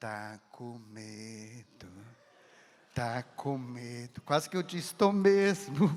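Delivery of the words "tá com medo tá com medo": very low, very slow, hushed murmur. Priest retelling what a woman began saying to him, quoting her very softly. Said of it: "começou a dizer bem baixinho".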